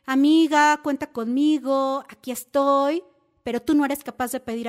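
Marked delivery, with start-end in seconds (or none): 0.1-3.0 loud, eager promise of support; mock the always-there friend; imitating the friend who offers everyone help; eager helpful friend. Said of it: "O eres de las típicas que".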